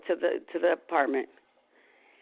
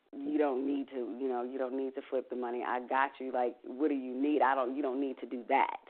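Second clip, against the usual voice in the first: tearful plea; 5 dB quieter than usual. Retold or imitated. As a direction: gently beg him through remembered tears. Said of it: "And I just remember crying".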